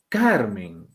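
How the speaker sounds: "Carmen" with the first syllable CAR stressed; teacher showing the stressed first syllable of "Carmen". Shown as a demonstration. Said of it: "la mayor fuerza de voz está aquí".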